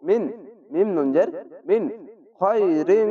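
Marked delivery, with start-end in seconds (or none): 2.4-3.1 খয়রিন with a hidden nasal n; খয়রিন with ikhfa ghunna. Shown as a demonstration. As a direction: soften the ন of খয়রিন into a nasal hum. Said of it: "ইকফা গুনা ... মতো পড়বেন".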